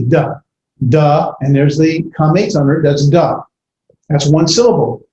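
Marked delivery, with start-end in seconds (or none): 0.0-0.3 "da" with a hard, single D. Shown as a demonstration. Teacher sounding out dalet, hard D. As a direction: start "da" on a hard D, not doubled. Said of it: "it's just pronounced the hard D".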